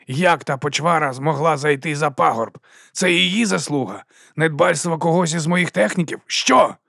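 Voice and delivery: rising, high, loud angry interrogation; furious questions. Acted. Boss raging at the technicians, building to a high furious shout. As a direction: build the rage to the last word.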